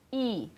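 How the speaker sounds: I said with lips spread wide in a smile; exaggerated smiling I for diction drill; smiling I vowel. Shown as a demonstration. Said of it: "No I, vogal sorriso".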